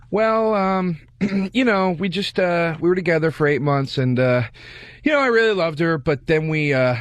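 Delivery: hesitant, mildly choked-up retelling; retold welling up. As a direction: act out starting to well up, halting. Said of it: "Oh, he started welling up?".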